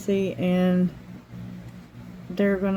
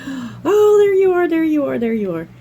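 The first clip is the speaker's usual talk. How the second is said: high, loud cry of reunion; overjoyed greeting; 8 semitones higher, 6 dB louder than usual. Retold or imitated. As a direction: greet her like a long-lost friend. Greeting the husky emotionally.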